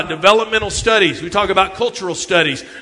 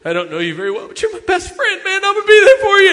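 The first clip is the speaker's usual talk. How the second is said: mock heartfelt pledge; 4 semitones lower than usual. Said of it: "And I'd say".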